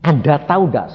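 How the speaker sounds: restrained question, anger gone; changed, calmed tone. Retold or imitated. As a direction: re-enact speaking calmly to the driver. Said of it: "nada saya sudah berubah". (nada tenang yang sudah berubah)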